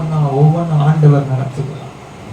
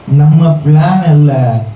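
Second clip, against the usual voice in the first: preaching at full force; 6 semitones lower, 3 dB louder than usual. Acted. Preacher declaring climax.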